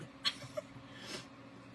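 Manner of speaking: wheezy voiceless laugh; laughter. Real, not acted. Cracking up over her own family, laughing. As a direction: laugh helplessly, mostly air.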